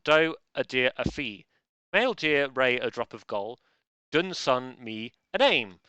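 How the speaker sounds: haiku read with a beat on each line; reciting haiku. Shown as a demonstration. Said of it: "So it should have gone".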